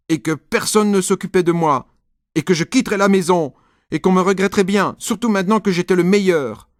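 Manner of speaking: indignant sulk. A narrator's reading. Nicolas complains to mom that nobody cares, high and loud. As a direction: pour out the hurt feelings.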